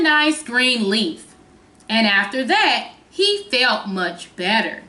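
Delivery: lilting storybook reading; reading to a toddler. Acted. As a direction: read it to little kids. Resumes reading the book.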